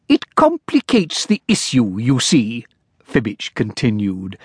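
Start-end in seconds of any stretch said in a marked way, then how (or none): 0.1-2.7 timid clerk. Acted. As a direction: plead politely like a nervous clerk. Clerk character voice.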